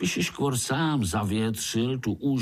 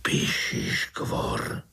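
slow, breathless whisper of a feared name; a terrified uncle naming the monster; much slower than usual. Acted. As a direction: hush it out, barely audible. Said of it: "zašeptal strýček".

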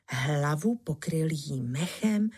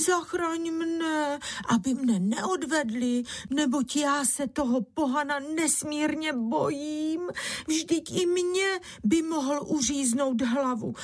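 lamenting wife; 9 semitones higher than usual. A narrator's reading. Bára begs her husband to hide her from the Turks, high wailing plea. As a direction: beg your husband to save you, higher. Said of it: "jala se naříkati Bára".

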